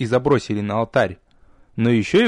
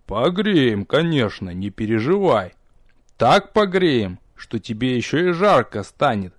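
menacing promise. Acted. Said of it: "недобро пообещал".

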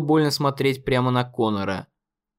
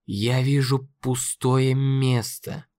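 very slow, cold, stress on вижу; cold slow taunt; much slower than usual. Acted. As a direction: drag it out with contempt. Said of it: "объявил он".

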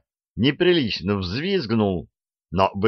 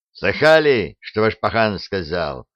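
barked. Acted. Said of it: "рявкнул на них нахальный пленник".

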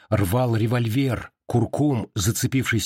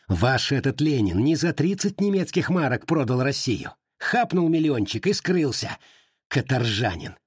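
shouting in rage; 2 semitones higher than usual. Acted. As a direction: rant like a man about to die. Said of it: "Калмыков кричал".

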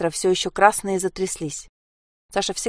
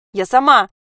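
defiant shout; 6 semitones higher, 8 dB louder than usual. Acted. Sasha shouts back.

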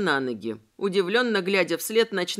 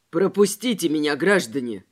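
lower, firm exclamation hiding fear; exclaimed; 6 semitones lower, 4 dB louder than usual. A narrator's reading. Robespierre facing two tramps, forced firm exclamation. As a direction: sound braver than you feel. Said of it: "воскликнул Робеспьер, стараясь не показывать свой страх".

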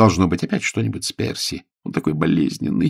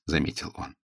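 ordinary delivery

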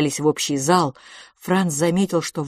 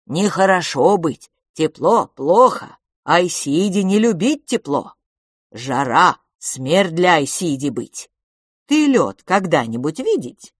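louder, concerned broken speech; worried creature; 5 dB louder than usual. Acted. Creature worriedly explains heat is death for his kind. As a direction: warn them earnestly. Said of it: "озабоченно покачал головой".

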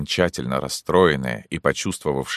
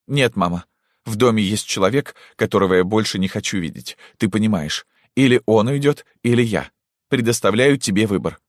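loud, high, theatrical ultimatum; dramatic tone; 6 semitones higher, 3 dB louder than usual. Acted. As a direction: play the heroine at full pitch. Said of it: "говорила громко, драматическим тоном". (громко, драматическим тоном)

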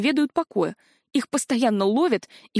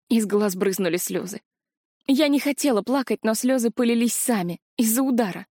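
ordinary delivery, nothing marked

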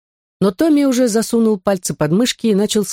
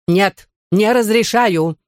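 yelled refusal; 4 semitones higher, much slower than usual. Acted. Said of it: "возопила миссис Матфорд".

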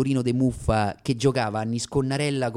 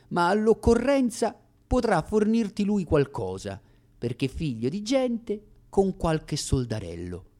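letter read aloud. Acted. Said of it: "E una lettera".

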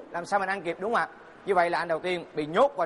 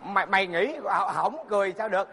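raised high, gleeful storytelling; excited retelling; 5 semitones higher than usual. Acted. Prisoner explains to his cellmate why he laughed, high and gleeful. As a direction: tell him the punchline laughing at yourself. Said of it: "Anh nói rằng".

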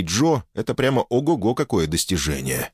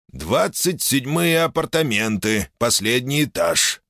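put-on slow, hoarse old man on intercom; 5 semitones higher, slower than usual. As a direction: rasp it like an old guard. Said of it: "прозвучал хриплый голос старого".

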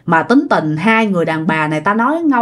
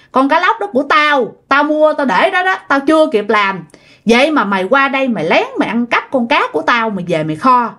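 higher-pitched accusing rant, not shouted; retold scolding; 4 semitones higher, faster than usual. Aunt berates nephew over a supposedly stolen fish, retold scolding. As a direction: act out an aunt piling up accusations. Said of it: "Thì bả chửi quá trời chửi".

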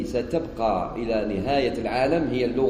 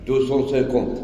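mock customer in French. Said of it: "علاه تقول دوسون سيكونت؟".

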